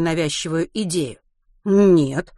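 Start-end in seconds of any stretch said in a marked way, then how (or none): 1.6-2.3 eager. Acted. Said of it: "охотно ответил географ".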